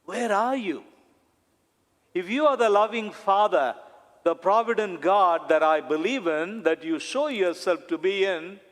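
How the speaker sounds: a touch of upset pleading, rising on "where are you"; upset prayer. Shown as a demonstration. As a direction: plead with God like someone mildly upset. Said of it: "that's how we say it when we are upset".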